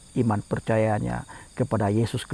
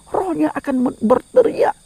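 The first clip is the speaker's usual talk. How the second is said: impassioned preaching; 4 dB louder than usual. Acted. Preacher emphasizes the spirit's cry.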